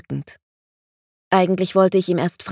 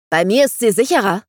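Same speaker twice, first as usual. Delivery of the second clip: angry claim; 4 semitones higher, 5 dB louder, faster than usual. Acted. Sword fight, heated quarrel.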